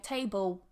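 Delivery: "table" ending in a w-like sound; learner's dark L. Shown as a demonstration. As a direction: let the L of "table" turn into a w. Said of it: "I have problems with the dark L".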